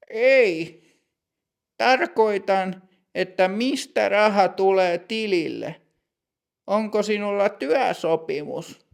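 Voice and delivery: stern bank clerk. Acted.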